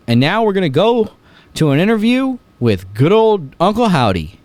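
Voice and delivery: high, loud announcer handoff with swooping pitch; hammed-up broadcast host throwing to an interview; Michael Cole. Host imitates Michael Cole sending viewers to an interview, hammed-up announcer. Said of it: "Michael Cole's like".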